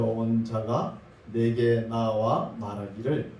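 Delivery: slow, measured Bible reading; scripture reading. Acted. Preacher reads the verse to the congregation, measured scripture reading. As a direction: read the verse out deliberately, phrase by phrase.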